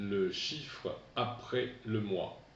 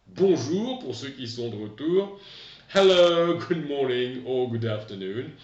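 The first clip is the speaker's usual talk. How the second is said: bright greeting; 3 semitones higher, 9 dB louder than usual. Real, not acted. Teacher greeting class brightly.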